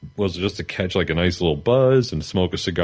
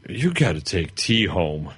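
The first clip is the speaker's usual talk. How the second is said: put-on drunk slurring; slower than usual. Drunk self retold insisting.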